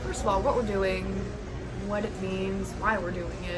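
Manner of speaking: measured presenter-style delivery; news anchor. Real, not acted. Vlogger explains the layover plan to viewers, sounding like a news anchor. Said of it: "You sound like a news anchor".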